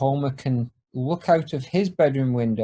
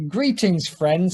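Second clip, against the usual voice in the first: recorded Homer voice; 4 semitones higher, slower than usual. Acted. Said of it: "says Homer's voice again".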